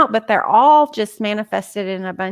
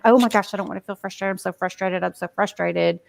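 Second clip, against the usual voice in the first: resisting frustration; 3 dB quieter, faster than usual. Shown as a demonstration. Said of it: "rather than".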